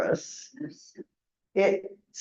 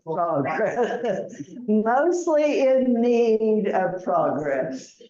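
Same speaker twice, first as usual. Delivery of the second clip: laughing; slower than usual. Real, not acted. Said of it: "laughs at the joke".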